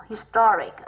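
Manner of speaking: "historic" slowly, stressed on "sto"; second-syllable stress. Shown as a demonstration. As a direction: punch the middle of "historic". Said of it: "âm hai".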